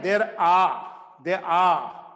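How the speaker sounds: "are" shrunk to a short uh, no r, after "there"; weak form are. Shown as a demonstration. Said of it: "there are नहीं है".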